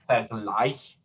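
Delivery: Vergleich with the stress on gleich; light Ver, weighted GLEICH in Vergleich; second-syllable stress. Shown as a demonstration. Teacher shows German suffix stress, Vergleich stressed on second syllable. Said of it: "the second syllable takes the stress".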